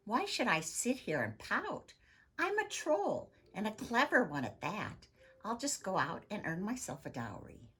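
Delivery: rally yourself like a clever troll woman; spirited troll woman. Acted. Helga's determined pep talk.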